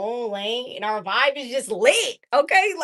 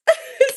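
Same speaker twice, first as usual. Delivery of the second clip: loud high laugh; 14 semitones higher, 8 dB louder than usual. Real, not acted. Loud laugh after quote.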